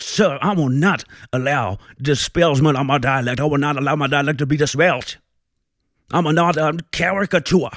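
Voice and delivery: a proud, wounded Florida judge protesting; indignant Southern judge. Acted. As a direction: puff up, offended and blustering. Continues Southern judge rant.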